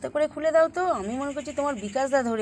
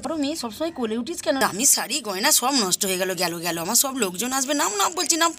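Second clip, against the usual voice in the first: flustered scolding; faster than usual. Acted. Mother scolds child to get down.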